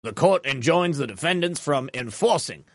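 put-on Southern accent. Host reading the judge's ruling to viewers in a light Southern accent. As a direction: read it as an older Southern cigar smoker. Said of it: "I'm just doing a Southern accent".

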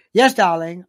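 mock mid-Atlantic accent. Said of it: "This was the boarding school accent".

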